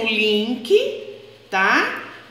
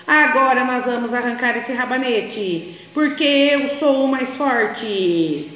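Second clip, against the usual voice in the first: boastful mouse. Acted. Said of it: "o rato falou".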